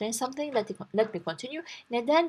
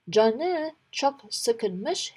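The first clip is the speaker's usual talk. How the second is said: slow model reading; 2 semitones higher, much slower than usual. Shown as a demonstration. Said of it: "His, he was very annoyed".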